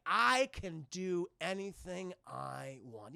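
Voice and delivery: very slow, sinister purr; creepy villain boast. Retold or imitated. Scarecrow boasting to the thug, slow and sinister. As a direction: savour every word like a villain.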